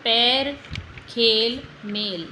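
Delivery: पैर, खेल, मेल said slowly, each vowel drawn out clearly; teacher sounding out पैर खेल मेल; careful demo words. Shown as a demonstration. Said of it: "ए की आवाज़ आ रही है ना".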